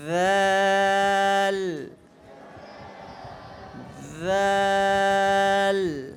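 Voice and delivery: slow soft recitation of ভ্যাল; soft drawn-out letter. Shown as a demonstration. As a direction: teach ভ্যাল soft with tongue tip on upper teeth. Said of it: "ঠিক আছে?".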